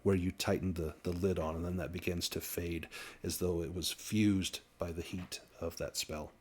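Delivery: game master's narration. A narrator's reading. Game master describing the binding to players, measured narration.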